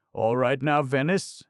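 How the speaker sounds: high, loud worried asking; high worried call; anxious question. Acted. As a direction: ask urgently.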